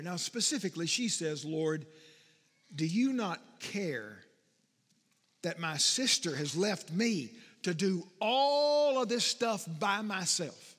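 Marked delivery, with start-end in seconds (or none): 1.4-10.7 slow, pointed frustrated complaint. Acted. Martha complaining to Jesus that her sister left her. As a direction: lay out the grievance slowly. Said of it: "She is frustrated".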